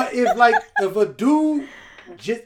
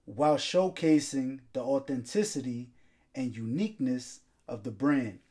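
measured sponsor read; 4 semitones lower than usual. Acted. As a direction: read the sponsor copy in even phrases. Reads the sponsor's ad.

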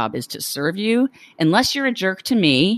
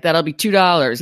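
put-on bartender line given a New York accent. Bartender quoting a beer price, New York accent. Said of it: "Sorry, I gave him a New York accent".

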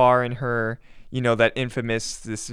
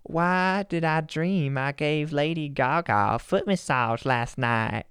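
a pop singer's voice. Pretend. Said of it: "Do it in a pop singer's voice".

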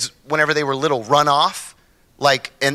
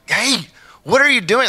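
high, louder mock wife voice; wife objecting; 10 semitones higher, 4 dB louder than usual. Wife interrupting husband's scare talk, high and loud. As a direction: cut in on him, alarmed. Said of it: "Tamara's like".

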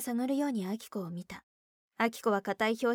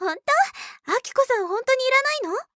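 very high, loud taunting voice; teasing surprise; 10 dB louder than usual. Acted. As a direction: gleefully needle her, mock surprise. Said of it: "わざと覗き込むように". (わざとらしく驚いてからかう)

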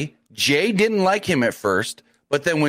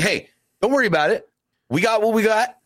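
reassuring brother, imitated; 7 semitones higher than usual. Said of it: "He should be saying".

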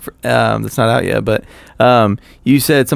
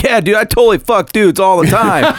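mock flamboyant gay; 8 semitones higher than usual. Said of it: "I'm like".

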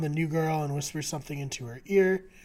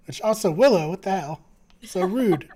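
indignant; 4 semitones higher, 9 dB louder than usual. Real, not acted. Indignant outburst at character.

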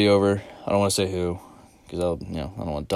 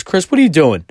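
loud, higher call from the yard; dad calling up; 8 semitones higher, 8 dB louder than usual. Retold or imitated. Dad raking leaves calls up to his son, loud. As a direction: call up to the window.

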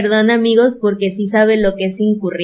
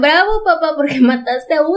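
higher-pitched mock cheer, breaking into a laugh; 4 semitones higher than usual. Host imagines daughters praising their father, mock cheering. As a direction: playfully pretend to applaud, with a laugh midway.

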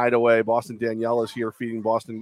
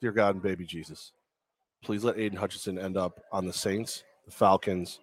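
mock prayer; 5 semitones lower than usual. Host jokingly prays for the player's draft team, hushed. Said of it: "I'm gonna do a quick prayer".

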